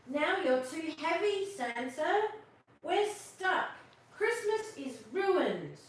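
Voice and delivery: put-on little girl. Martha May scolds Santa.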